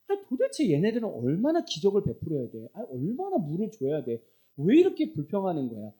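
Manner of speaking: mildly exasperated acted complaint; fed-up Moses. Preacher as Moses complaining about the Israelites, mildly angry. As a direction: voice Moses grumbling, a touch heated. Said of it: "모세 스스로가 열받은 거예요".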